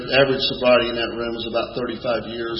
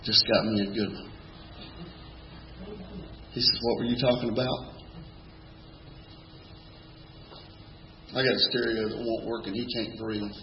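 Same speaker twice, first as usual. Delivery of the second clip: put-on breathless old man; 4 semitones lower, 15 dB quieter than usual. Fragile Hoyt on oxygen.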